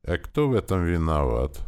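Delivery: ordinary delivery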